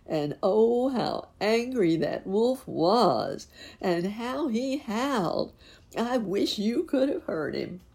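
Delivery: high, drawn-out storytelling swoops; high, loud, relishing the villain's fury; gleeful exclaiming. A narrator's reading. Narrator relishes the wolf's howling fury.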